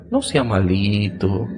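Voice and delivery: slow, gentle "No sea malito"; soft coaxing. Shown as a demonstration. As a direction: coax a favor softly and slowly. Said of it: "esta prosodia que estás escuchando, que es suavecita". (suavecita, invitando a hacer un favor)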